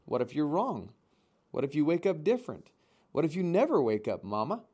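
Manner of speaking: lightly voiced young gosling, anxious and pleading; a small frightened child asking fast questions; a hint of a scared little bird begging his mother; worried gosling.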